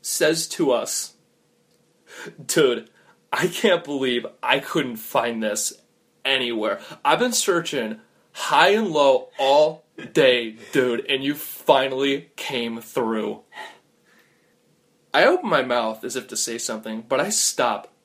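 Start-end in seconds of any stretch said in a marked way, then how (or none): 2.4-13.4 slow, drawn-out, barely amused voice; about to laugh. Acted. Feathered stranger greeting his helpers, slow and near laughing. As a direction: stretch the words as if a laugh is coming. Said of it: "sounds like he's about to start laughing".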